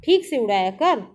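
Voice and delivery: put-on a boy lovingly telling off his toy plane; affectionate scolding. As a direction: tell off the plane with love. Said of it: "प्यार से डांटते हुए कहता है".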